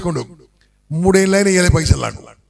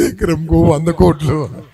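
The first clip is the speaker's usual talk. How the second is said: ఎకరంకు వంద కోట్లు stretched out very slowly; slow punchline, ఎకరంకు వంద కోట్లు; emphatic; 3 semitones lower, much slower than usual. Shown as a demonstration. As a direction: drag out వంద కోట్లు for full weight. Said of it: "గట్టిగా చెప్పాలి".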